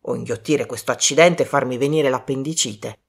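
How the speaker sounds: mildly aggrieved, low complaint; grumbling. Acted. Colonel complains of swallowing glass, grumbling. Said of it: "bofonchiò".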